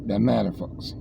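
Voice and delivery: low drawn American accent on Doesn't matter. Shown as a demonstration. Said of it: "You like that American accent?".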